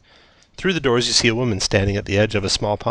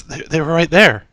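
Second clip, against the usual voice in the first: confused villager; 7 semitones higher, 5 dB louder than usual. Acted. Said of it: "the villager's confused".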